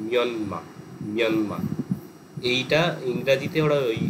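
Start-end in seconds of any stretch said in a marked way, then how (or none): 0.1-1.6 মিয়নমা with a gliding মিয় at the start, then মিয়ানমা with no final r; Burmese pronunciation demo. Shown as a demonstration. Teacher demonstrates মিয়ানমা as Burmese speakers say it. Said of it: "ম্র জায়গায় মিয় উচ্চারণ হয়".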